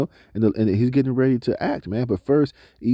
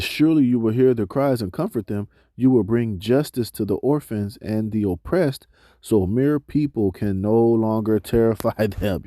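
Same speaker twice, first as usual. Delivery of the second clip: slow, measured reading of scripture. Acted. Preacher reading scripture to the congregation, slow and measured. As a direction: read the verses out to the congregation, slowly. Reads scripture passage aloud.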